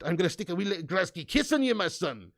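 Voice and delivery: lightly put-on Glaswegian accent; hint of jokey Scottish brogue; mock Scottish accent. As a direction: tease with a playful Glasgow accent. Jokey Glasgow threat in Scots.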